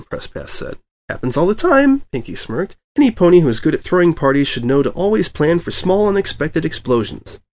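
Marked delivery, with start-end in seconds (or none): 1.1-7.4 high, teasing chirp; smirking Pinkie. A narrator's reading. Pinkie teases the reporter about explosions, smirking. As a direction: toss it off with a smirk.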